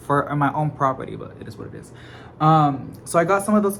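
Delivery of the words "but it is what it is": resigned whisper; whispered aside. Real, not acted. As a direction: breathe it out unvoiced.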